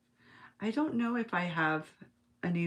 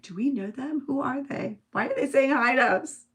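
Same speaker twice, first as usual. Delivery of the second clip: higher-pitched retold questioning; puzzled questions, growing louder at the end; baffled aside, acted out; 5 semitones higher, 3 dB louder than usual. Teen to sister about friendly strangers, baffled. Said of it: "I said to my sister".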